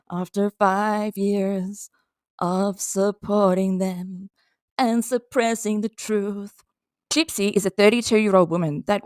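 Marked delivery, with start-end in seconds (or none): 0.1-6.5 very slow, word by word; slow emphasis. Real, not acted. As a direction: spell out each phrase slowly. Emphatic point about five years.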